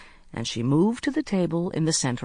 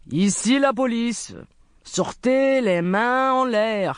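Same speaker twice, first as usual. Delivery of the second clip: calling out; 6 semitones higher, 4 dB louder than usual. A narrator's reading. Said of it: "called the voice".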